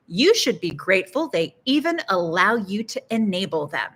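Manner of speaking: mildly sarcastic, lilting emphasis; dry mock reproach with bouncing intonation. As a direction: say it as tongue-in-cheek scolding. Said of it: "That's sarcasm, okay?".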